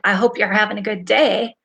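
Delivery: cold, sarcastic edge; snide reading. Shown as a demonstration. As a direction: read it like a backhanded wish. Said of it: "read that in your mindset of".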